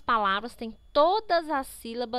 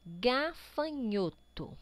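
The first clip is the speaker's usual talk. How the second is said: syllable by syllable; 3 dB quieter, much slower than usual. Shown as a demonstration. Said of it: "leia a palavra".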